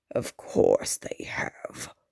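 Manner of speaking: low, deep, breathy rumbling near-whisper. Narrator reads the Baron answering the news about the Duke, deep rumble. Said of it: "the Baron rumbled".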